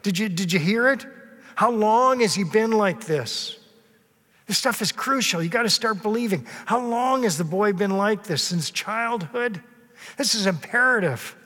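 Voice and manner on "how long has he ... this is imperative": higher, pressing, urgent questioning; urgent Jesus. Shown as a demonstration. Jesus urgently questioning the boy's father, pressing hard. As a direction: press the father like a worried doctor. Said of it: "you can sense the urgency there in Jesus' voice".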